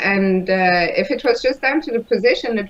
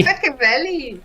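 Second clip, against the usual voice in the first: put-on a light, half-hearted Welsh accent on Abergavenny; co-host coaxed into a Welsh accent, mild Welsh lilt; Welsh accent attempt; 3 semitones higher than usual. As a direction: try saying Abergavenny the Welsh way, shyly. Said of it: "That's not bad".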